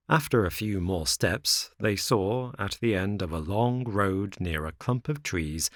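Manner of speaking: usual speaking voice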